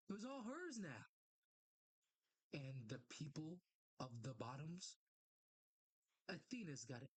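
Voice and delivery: measured read with long pauses; comic confession narration. Acted. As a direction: read a regretful confession, phrase by phrase. Reads character's confession aloud.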